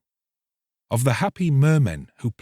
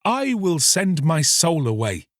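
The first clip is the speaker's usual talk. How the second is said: raised, joyful cry; eager cry; 7 semitones higher than usual. Acted. Fisherman cries out joyfully to the mermaid. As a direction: call it out in delight. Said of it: "he cried".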